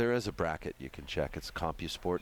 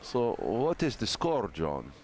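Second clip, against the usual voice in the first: thick mock Russian accent; hammed-up Russian commentator; 3 semitones higher than usual. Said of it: "commentate this match in a Russian accent".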